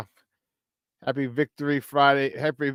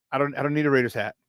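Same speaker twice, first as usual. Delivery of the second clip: quick brush-off; 4 dB quieter, faster than usual. Real, not acted. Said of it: "repeats the line laughing".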